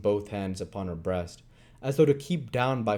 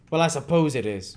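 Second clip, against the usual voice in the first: growl; 6 semitones higher, 5 dB louder than usual. Acted. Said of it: "growled Sikes".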